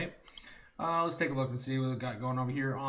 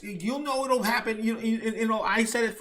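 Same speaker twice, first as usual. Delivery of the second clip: quoted woman; 7 semitones higher, 6 dB louder than usual. Retold or imitated. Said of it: "she said".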